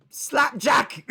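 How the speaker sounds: blurted name. Pretend.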